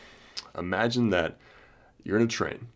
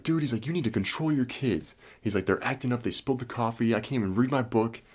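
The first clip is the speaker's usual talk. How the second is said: higher-pitched exasperated complaint, retold; mock annoyed; 5 semitones higher than usual. Annoyed passenger confronting the other man, mock exasperation. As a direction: imitate a fed-up passenger without shouting. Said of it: "Frustrated and annoyed".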